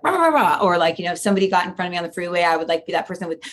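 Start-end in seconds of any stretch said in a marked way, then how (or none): 0.0-0.6 hammed-up angry rah; mock angry growl. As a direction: bark back at everyone. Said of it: "I was always like".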